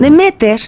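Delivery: "Demeter" with the stress on the second E, deMEter. Shown as a demonstration. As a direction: say "Demeter" landing on the middle syllable. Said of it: "el acento es en la segunda E". ("Demeter" con el acento en la segunda E)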